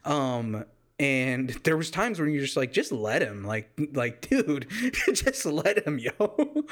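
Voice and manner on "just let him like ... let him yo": exasperated but amused begging; mock pleading. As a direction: draw out a half-amused plea for mercy. Acted plea of exasperated viewer.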